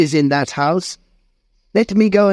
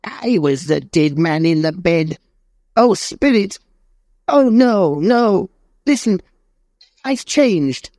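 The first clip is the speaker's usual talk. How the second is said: put-on much higher, desperate begging old man; pleading in despair; 11 semitones higher than usual. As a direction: plead for your life on your knees. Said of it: "trembling; fell on his knees".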